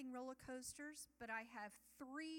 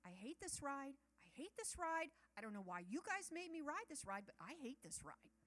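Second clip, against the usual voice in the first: mock outburst of protest; coming out loud; 3 semitones higher than usual. Reluctant rider protests to her family, out loud. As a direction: complain aloud, rising insistence then easing off. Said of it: "it comes out loud".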